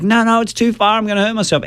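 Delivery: put-on very high, whiny child refusing in fear; mock-whimper like a frightened kid; scared child. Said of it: "they're screaming".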